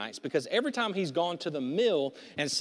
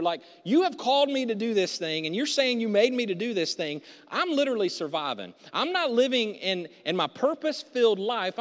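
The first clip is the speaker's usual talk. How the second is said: fearful protest; 3 semitones higher than usual. Acted. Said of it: "bringing to God his fear".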